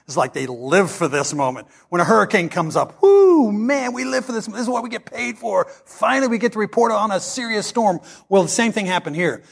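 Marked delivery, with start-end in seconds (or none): 3.0-8.0 excited meteorologist. Retold or imitated. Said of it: "you know how meteorologists do whenever there's a tornado".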